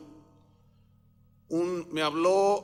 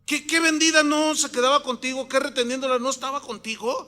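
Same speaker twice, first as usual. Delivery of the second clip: loud, high-pitched accusation, acted out; stern rebuke; 6 semitones higher, 5 dB louder than usual. Apostle accusing Ananías before everyone, stern rebuke. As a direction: thunder the charge like a preacher playing the apostle.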